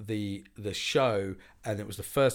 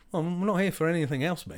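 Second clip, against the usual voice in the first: higher, laughing retort; laughing punchline; 8 semitones higher, 4 dB louder than usual. Retold or imitated. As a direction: deliver it cracking up.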